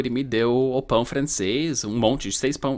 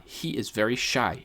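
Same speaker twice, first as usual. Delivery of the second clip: slow example; 4 dB quieter than usual. Shown as a demonstration.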